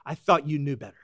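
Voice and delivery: soft disappointment. Pretend. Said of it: "frowning in disappointment saying".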